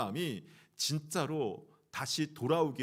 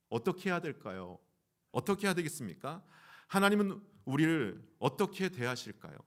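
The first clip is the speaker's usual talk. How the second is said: ordinary delivery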